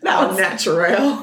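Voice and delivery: slow, drawn-out Southern French; put-on fancy French in a Southern accent. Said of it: "was that Southern French?".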